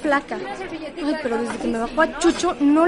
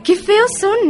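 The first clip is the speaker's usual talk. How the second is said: disgusted; 6 semitones higher, 5 dB louder, much slower than usual. Acted. Girls discussing body hair disgusted.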